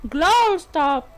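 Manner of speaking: repeated fake Scottish pronunciation; amateur Scottish glottal stop; Scottish accent attempt. Shown as a demonstration. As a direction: swallow the T, mock-Scottish. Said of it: "you would say".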